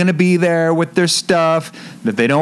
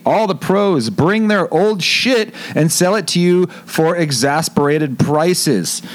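anchorman news read; newscaster voice. Pretend. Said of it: "I'm gonna read this like a newscaster".

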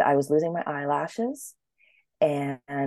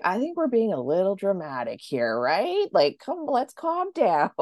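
calming him down; 4 semitones higher than usual. Retold or imitated.

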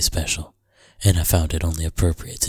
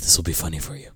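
whisper; 5 dB quieter, much faster than usual. Real, not acted. Joking aside to listeners.

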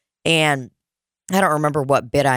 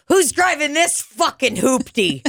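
high mocking call-out with a grin; teasing jab; 9 semitones higher than usual. Manager teasing wealthy regulars about their car, mocking. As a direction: needle them about the fancy car.

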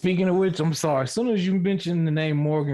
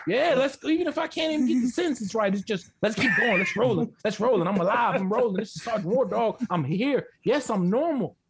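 acid tripping voice; 4 semitones higher than usual. Pretend. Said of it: "But then the acid kicks in".

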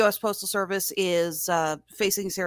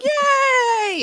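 high shouted puppet yay; puppet cheer; 7 dB louder than usual. Pretend. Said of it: "wave it on the screen".

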